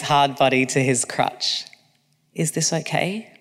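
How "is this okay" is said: soft unvoiced whisper. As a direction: breathe the question gently. Intimate question in bed.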